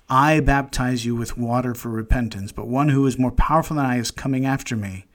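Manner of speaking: the same verse rattled off fast and casual; quick rereading. Shown as a demonstration. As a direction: run through it quickly, as if thinking aloud. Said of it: "we don't talk like this".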